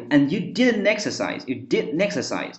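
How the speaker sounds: "didn't exercise" as "didn-nexercise"; linked pronunciation. Shown as a demonstration. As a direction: drop the T of "didn't", carry N into "exercise". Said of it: "它是这么去读的". (“didn't exercise”连读，省去T音)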